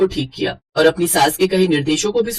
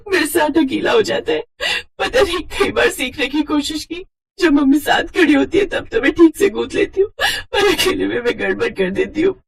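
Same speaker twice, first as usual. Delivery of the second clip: higher, crying voice, close to sobbing; a bride weeping to her mother-in-law; tearful apology; 8 semitones higher than usual. Acted. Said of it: "तुम रो क्यों रही हो".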